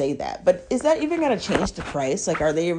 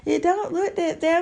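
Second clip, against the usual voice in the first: reassuring; 9 semitones higher, slower than usual. Retold or imitated. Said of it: "trying to cheer me up".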